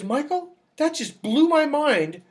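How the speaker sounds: amazed niece. Retold or imitated. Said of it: "she goes".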